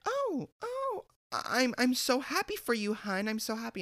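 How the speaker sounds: very high, stammered fake congratulations; fake-happy rival. Coworker congratulating him through clenched envy, mock fake-happy. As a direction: mimic a rival squeaking out false delight.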